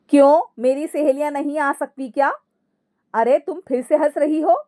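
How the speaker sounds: mildly affronted. Acted. Mother-in-law questioning laughing daughter-in-law, mildly affronted. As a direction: challenge her with a touch of annoyance.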